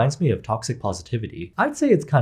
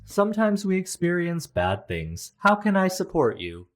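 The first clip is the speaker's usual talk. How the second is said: flat robot therapist voice; 6 semitones higher than usual. Shown as a demonstration. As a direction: read it like a scripted AI therapist. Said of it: "this is what an A I generated therapist would say".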